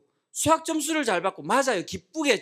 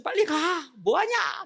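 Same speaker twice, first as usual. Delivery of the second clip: high-pitched nagging, no real shouting; mock parental scolding; 5 semitones higher, slower than usual. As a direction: imitate a parent hurrying a child. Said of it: "부모님들 다 싸움이 있지 않습니까". (다그치는 부모 흉내)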